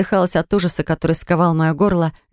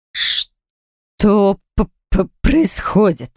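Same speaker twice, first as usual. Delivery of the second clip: weak, faltering stutter; stuttering weakly; 2 semitones higher, much slower than usual. Acted. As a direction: stammer from weakness. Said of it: "Заикаясь от слабости".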